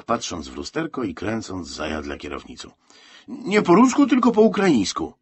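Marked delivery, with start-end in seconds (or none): 3.3-5.1 high, loud indignant correction; high-pitched shouted retort; shouting back. A narrator's reading. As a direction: yell the correction straight back. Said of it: "odkrzyknął Miron".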